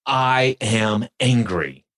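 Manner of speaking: slowly, word by word; slow demo line. Shown as a demonstration. Host models the phrase slowly for the guest. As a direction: spell it out slowly for him to copy. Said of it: "Say those words out loud".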